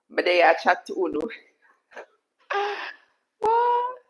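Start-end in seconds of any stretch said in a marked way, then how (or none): 0.1-1.2 quick line of Jamaican patois. Shown as a demonstration. Streamer answering a request to talk patois, in Jamaican patois. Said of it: "Talk patois".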